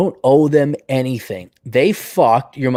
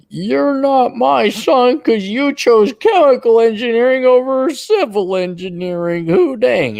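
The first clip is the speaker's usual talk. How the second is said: loud, high, slow mock accented father; strict immigrant father disowns his son; mock Asian parent; 10 semitones higher, 5 dB louder, slower than usual. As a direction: bark it like a disowning dad.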